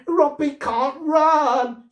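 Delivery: put-on high, loud little-girl taunt; taunting shout. A narrator's reading. Little girl taunting her robot at the top of her voice. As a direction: yell it out to mock him. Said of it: "she shouted at the top of her eight-year-old vo".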